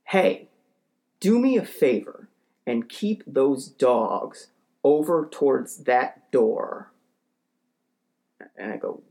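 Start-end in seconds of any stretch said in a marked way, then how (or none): 0.0-6.9 slow, emphatic mock yell; retold yell. Neighbor storming out at a dog walker, mock yell. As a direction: imitate an irate neighbor laying down orders, drawn out. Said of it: "and yells".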